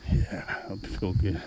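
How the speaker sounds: winded from the uphill run; panting between words on the climb; breathless at high altitude. Real, not acted. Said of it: "to me it feels like I'm at altitude".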